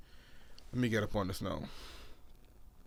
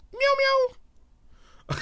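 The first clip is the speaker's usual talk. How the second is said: cat meow. Pretend. Imitated cat noise during China bit.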